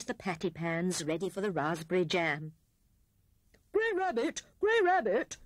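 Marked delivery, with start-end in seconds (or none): 3.7-5.4 high, loud excited call. A narrator's reading. Hare calls Grey Rabbit from the garden path, calling out. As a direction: call out urgently for a friend. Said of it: "called Hare".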